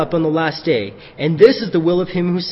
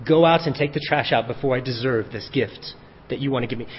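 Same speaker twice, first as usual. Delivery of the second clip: lower, softer, timid pleading son; mildly voiced humble child asking to earn it; a hint of a meek son; 5 semitones lower, 5 dB quieter than usual. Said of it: "He's like".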